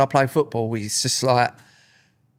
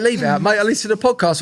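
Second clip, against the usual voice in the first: imitating the kid; 7 semitones higher, faster than usual. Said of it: "he went".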